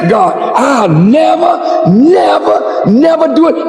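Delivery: desperate prayer. Retold or imitated. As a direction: bargain with God at full voice. Sinner's desperate bargaining prayer.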